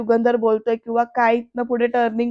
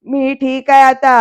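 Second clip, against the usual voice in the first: louder, slow mock yell; retold shout; 6 dB louder, slower than usual. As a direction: raise the voice, slowly, imitating his shout. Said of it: "असं म्हणत ओरडतो". (सावकाश, आवाज चढवून ओरडण्याची नक्कल)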